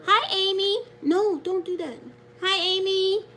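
bright, loud hello up high; excited greeting. Real, not acted. Grandma greeting a viewer on her live stream, excited.

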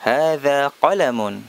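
slow, careful Arabic, hadza stressed; slow model phrase. Shown as a demonstration. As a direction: recite it slowly for pupils to repeat. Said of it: "Hadza, ini".

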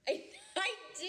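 fast, high laughing reply. Real, not acted. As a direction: answer while laughing. Laughing at a compliment.

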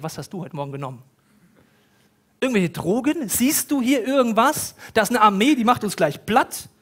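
mock the master in disbelief; incredulous. Servant mocks Elisa's calm.

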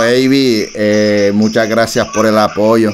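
low-key flirty star voice, barely changed; impression of a singer. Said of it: "te habla" followed by the singer's name.

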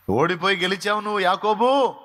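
high, loud pulpit cry; fervent declaration to Jacob; preached proclamation. Acted. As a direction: ring it out to the whole church.

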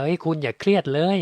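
tossing off easy advice with a light mocking lift; breezy brush-off. A friend casually telling a stressed person to relax, mock breezy. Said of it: "มันไม่ง่ายหรอกการจะไปบอกว่า".

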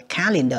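"calendar" with C sounded as K; hard C. Shown as a demonstration. Teacher showing pupils the C sound, hard C in "calendar". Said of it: "âm cờ".

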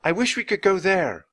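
Annie speaks the wish loud and clear. A narrator's reading. Annie wishing on the rhyme, loud and clear. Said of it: "said loudly and clearly".

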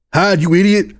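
urgent Flair. Acted. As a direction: urge a dazed friend to take cover. Flair urgently orders narrator away.

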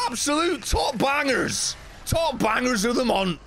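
slow, high hype shout; hype announcer. Acted. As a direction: bellow it like a radio DJ. Announcing song picks, shouted.

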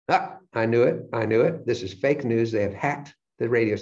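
hammed-up refusal to believe it; mock outraged denial. Acted disbelief at the election news.

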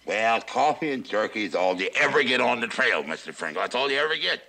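talking around a finger in mouth; muffled, finger pressed on tooth. Acted. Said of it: "must you speak with your finger in your mouth?".

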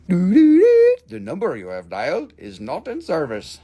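operator-style recorded message; mock phone recording. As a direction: parody the phone line operator.

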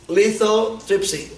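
slow teaching pronunciation. Shown as a demonstration. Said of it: "what is it called?".

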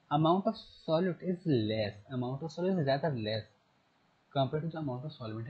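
very slow, word-by-word reading aloud; slow textbook reading. Shown as a demonstration. Teacher reading the textbook definition to the class, slow and deliberate. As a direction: read the definition slowly so students can follow.

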